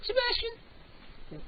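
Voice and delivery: very high sing-song pet voice. Real, not acted. Host coaxing his cat to meow, high baby talk. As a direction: coo up high at the kitty.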